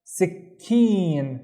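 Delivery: SIKKEEN with a held k, then long ee; doubled consonant demo. Shown as a demonstration. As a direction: say "sikkeen" as sik-keen. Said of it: "need to pronounce this key also".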